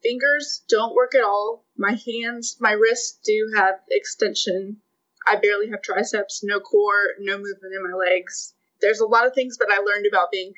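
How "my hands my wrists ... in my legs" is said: weak, breathy-sounding voice from no diaphragm. Real, not acted. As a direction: voice fading weak at line ends. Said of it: "my voice gets pretty weak as I'm talking".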